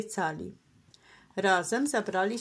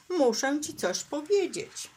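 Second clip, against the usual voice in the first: high, emphatic plea to be heard; mild shouted insistence; insistent cry; 6 semitones higher than usual. A narrator's reading. Skunk must tell turtle something, insistent cry. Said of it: "krzyknął z całych sił skunks".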